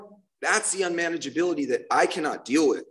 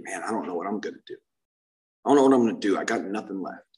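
despairing inner voice; 8 semitones lower, faster than usual. Retold or imitated. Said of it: "I remember being so sick up there, thinking".

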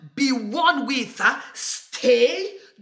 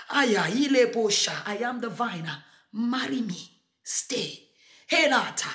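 tender plea. Acted. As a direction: coax them close, almost whispering. Jesus voiced as tender groom.

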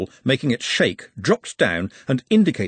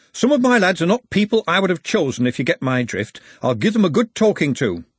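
lightly voiced captain, higher at the start; apologetic team captain; 7 semitones higher, 4 dB louder than usual. A narrator's reading. Hoggett promising the referee he'll talk to his lads, apologetic. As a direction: excuse your lads to the referee.

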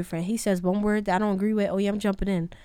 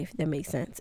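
usual speaking voice

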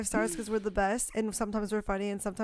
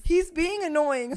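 breaking character giggling; 7 semitones higher, 6 dB louder, slower than usual. Real, not acted. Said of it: "can't stop laughing".

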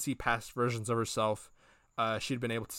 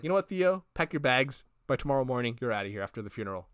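mock angry eviction; 4 dB louder, faster than usual. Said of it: "Shirley's like".

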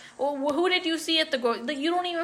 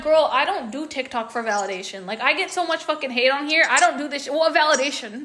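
mock-indignant retelling of a clapback; indignant retort. Creator snaps back at a commenter accusing her of seeking validation, indignant. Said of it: "I didn't say it like that".

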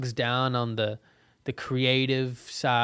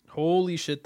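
sudden real yelp of shock, higher; shocked by cold; 5 semitones higher than usual. Real, not acted. Beer poured on his own head, real shocked gasp. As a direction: blurt it out as icy beer hits. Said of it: "that's cold".

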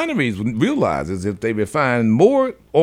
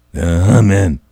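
"humming" said much louder, falling at the end; loud repeat; 5 semitones lower, 9 dB louder, slower than usual. Real, not acted. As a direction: punch "humming" hard. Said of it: "repetition punched loud".

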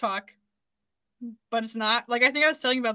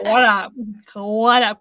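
a hint of a hyped-up DJ, lower and louder; fake radio greeting; 4 semitones lower, 4 dB louder, much slower than usual. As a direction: overdo a cool radio greeting. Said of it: "Sound fake".

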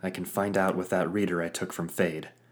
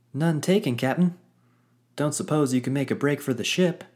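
high, cheerful sidekick; 7 semitones higher, 5 dB louder, faster than usual. Acted. Pluck voiced in story.

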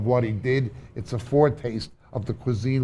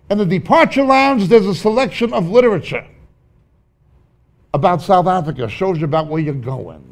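excited; 5 semitones higher, 6 dB louder than usual. Real, not acted. Excited description of lounge.

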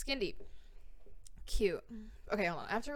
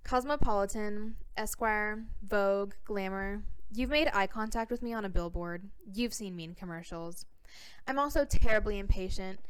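put-on California accent. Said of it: "I have to read this with my California accent".

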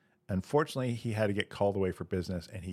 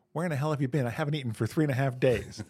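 mock outrage, pitched up; hammed-up indignant complaint, higher voice; indignant dog; 5 semitones higher, faster than usual. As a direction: play a hungry dog scolding its owner. Dog berates returning owner in joke.

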